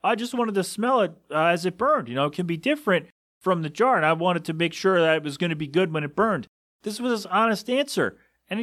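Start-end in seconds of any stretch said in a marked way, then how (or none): 0.0-6.5 higher, lightly voiced clueless customer. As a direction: mimic his innocent excuse, pitched up. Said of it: "And he's like".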